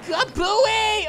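high, loud gleeful kabooey; excited kaboom. Real, not acted. Gamer blowing up an enemy's ladder, gleeful shout. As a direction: shout it as the bomb lands.

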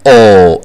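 O held long and slow. Shown as a demonstration. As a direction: draw out a firm O, not A. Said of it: "ال A هنا ما بتنطقش A". (O طويلة بدل A)

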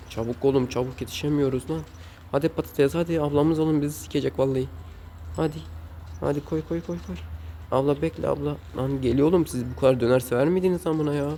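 high, rushed urging of the fries; frantic hurry. Real, not acted. Gamer swamped by impatient customers, frantic and high. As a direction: panic to keep up with customers. Rushing orders in döner game.

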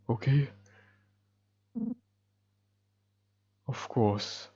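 lightly voiced shy girl. Shy girl reassuring the worried hero, soft and hushed. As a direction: answer gently, barely above a murmur.

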